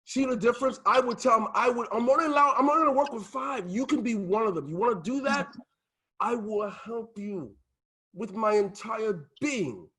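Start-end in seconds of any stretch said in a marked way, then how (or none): 1.9-9.9 firm, higher-pitched sales pitch, slowing at the end; earnest pitch. Shown as a demonstration. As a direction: pitch it with conviction, stretching the final promise. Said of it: "Not like Mary Poppins".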